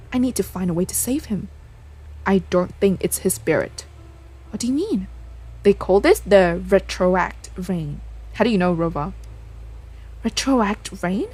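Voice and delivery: lightly acted game dialogue, earnest and dramatic; character dialogue. Player voicing the characters' conversation about the ghost, lightly dramatic. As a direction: voice the characters as you read the story scenes.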